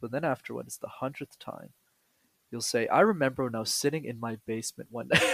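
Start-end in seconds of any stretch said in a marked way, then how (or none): 2.9-5.2 laughing mock story.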